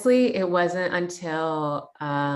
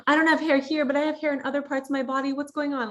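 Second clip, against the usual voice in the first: laughing quote; 8 semitones higher, faster than usual. Retold or imitated. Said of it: "in places it's like".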